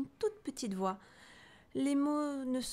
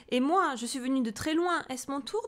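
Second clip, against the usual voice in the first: timid seal; 5 semitones higher, 6 dB louder than usual. A narrator's reading. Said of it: "demande le phoque timide".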